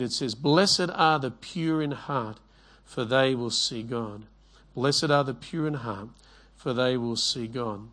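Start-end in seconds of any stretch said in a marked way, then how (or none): 0.3-4.2 slow, measured reading of the verse; slow scripture reading. Shown as a demonstration. Preacher reads the verse to his congregation, slow and measured. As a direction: give each word weight, like reading it aloud from the Bible. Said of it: "It says in Matthew five eight".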